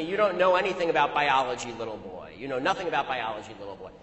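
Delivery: drops low on little boy, imitating a deep voice; lightly imitated deep taunt; mock deep voice. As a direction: sneer it down low at the end. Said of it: "in a voice at least an octave below my own".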